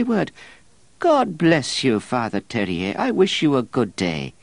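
put-on high, self-pitying old cleric; whining monk voice. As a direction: complain like a put-upon monk.

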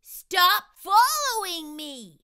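high, loud telling-off; bossy big brother. Acted. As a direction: snap at the little brother. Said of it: "David's big brother always said".

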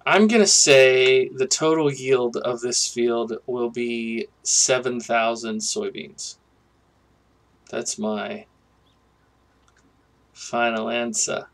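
a bad, half-hearted quiz-master impression; Regis Philbin impression. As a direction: announce it like a quiz show host revealing the answer. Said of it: "that was a really bad Regis Philbin accent".

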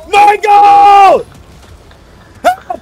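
loud, high yell for help; desperate shout. Real, not acted. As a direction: call out in panic.

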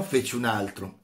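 a teacher reading a philosophy passage aloud with feeling; dramatic reading. Acted. Teacher reading Nietzsche's parable to students, dramatic read. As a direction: read it to the class like a parable, building tension.

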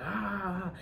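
high, softened imitation of a wail; small high-pitched mock yell. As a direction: mimic someone wailing, held back in volume. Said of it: "my ex was really wailing".

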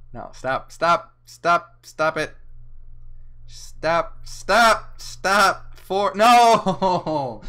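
mock pleading shout. Begging viewers to stop liking.

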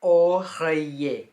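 oreiller drawn out very slowly, o-rei-yé; slow French oreiller; French pronunciation. Shown as a demonstration. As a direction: stretch every syllable of oreiller. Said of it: "อ่านว่า".

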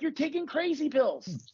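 high, drawn-out mock disbelief; slow it down and pitch it up, incredulous. Mock reply to an absurd claim.

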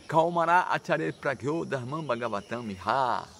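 slow, measured Sanskrit recitation; verse recitation. Shown as a demonstration. Teacher quotes a scripture verse to listeners, reciting. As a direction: recite the verse syllable by syllable, slowly.

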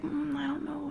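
soft, high, unsure murmur; hesitant. Retold or imitated. Lady gnome unsure of the dreamer's plan, soft and hesitant. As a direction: imitate timid reluctance.

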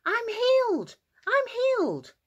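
very high, excited shout; joyful shouting. Acted. Healed man running into town, shouting with excitement. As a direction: shout the good news to everyone. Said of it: "he ran into town shouting".

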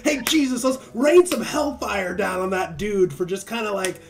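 high, loud, half-shouted plea with a laugh; eager zealot. Retold or imitated. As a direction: beg for hellfire like an overexcited kid. John begging Jesus for hellfire.

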